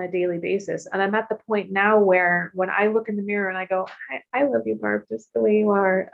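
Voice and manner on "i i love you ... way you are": gentle, heartfelt self-affirmation; sincere. Retold or imitated. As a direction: say it lovingly and mean it. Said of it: "I mean it".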